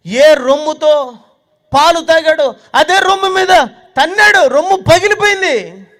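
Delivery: loud, high, slow outrage; fervent preaching. Acted. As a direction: hammer each phrase home. Preaching at full force.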